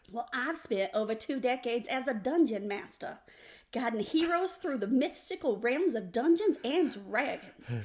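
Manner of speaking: grand, swooping boast; mock-epic folksy host; hammed-up show intro. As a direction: sell the dungeon master résumé theatrically. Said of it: "I couldn't keep it straight".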